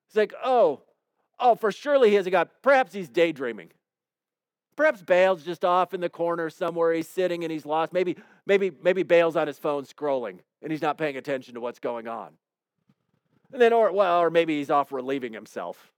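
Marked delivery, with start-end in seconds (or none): 0.4-12.4 mild mock taunt. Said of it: "Elijah starts trash talking".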